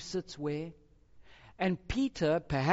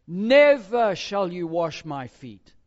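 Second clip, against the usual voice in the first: emphatic refusal; 10 dB louder, slower than usual. Acted. Peter refuses Jesus, reading.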